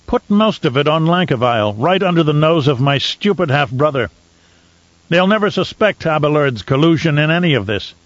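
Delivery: a lightly voiced Baron, scheming with relish; gleeful scheming Baron. Baron plotting against his half-brother, gleeful. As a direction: savour the scheme.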